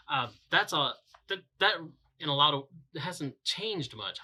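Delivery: stumbling, repeating words; stuttering through the sentence. Real, not acted. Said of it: "I'm stuttering a lot today".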